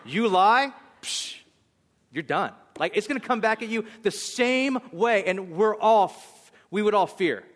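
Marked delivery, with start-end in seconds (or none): 0.0-2.5 mock stern preacher. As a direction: scold the crowd half in jest. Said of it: "I could be like".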